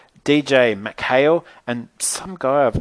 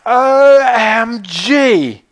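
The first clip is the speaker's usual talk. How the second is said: much higher, louder, slow drawn-out squeals; squealing OMG; 11 semitones higher, 8 dB louder, much slower than usual. Retold or imitated. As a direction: gush like starstruck girls. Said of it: "her friends Zoe and Chloe".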